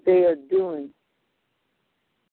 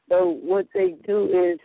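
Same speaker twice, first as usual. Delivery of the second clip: distant, off-mic voice; talking away from the phone; phone held away. Real, not acted. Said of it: "try to talk into the phone".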